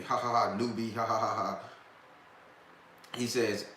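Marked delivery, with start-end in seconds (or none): 0.0-1.6 mock laughter. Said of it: "everybody up there with him laughing at me".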